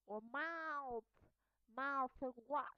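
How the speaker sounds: "mouth wash" with voiceless TH at the join; TH mid-word. Shown as a demonstration. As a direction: model "mouth wash", airy TH closing "mouth". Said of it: "in the middle of the word".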